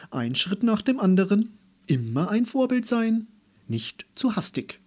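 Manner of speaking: high, lecturing schoolmaster; nasal teacher voice. A narrator's reading. Pretend teacher admonishes a child, nasal lecturing voice. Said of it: "mit näselnder Lehrerstimme".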